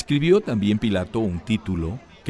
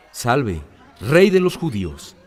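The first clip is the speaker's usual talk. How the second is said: mocking hail; 3 semitones higher, 8 dB louder, slower than usual. Soldiers mock the king.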